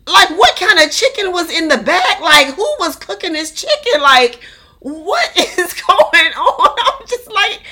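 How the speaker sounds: high, incredulous talk through laughter; laughing. Real, not acted. Telling y'all about chicken in the back, laughing. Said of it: "y'all, I'm laughing".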